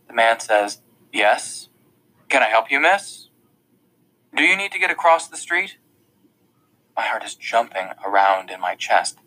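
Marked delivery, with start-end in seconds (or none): 1.1-5.8 loud man. A narrator's reading. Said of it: "louder than it needs to be".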